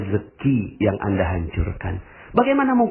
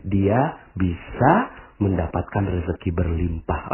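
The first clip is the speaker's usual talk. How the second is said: gentle pious words; 3 semitones lower than usual. Shown as a demonstration. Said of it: "Ngomongnya gini".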